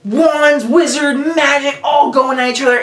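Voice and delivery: normal talking voice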